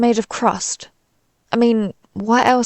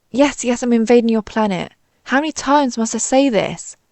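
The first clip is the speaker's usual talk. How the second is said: exasperated; 2 semitones higher than usual. Acted. Impatient invader repeats himself to questioner.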